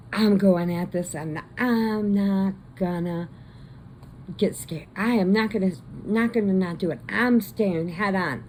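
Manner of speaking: emphatic retold bravado; defiant vow. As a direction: dig in like a daredevil playing chicken. Retold rider's defiant vow in chicken.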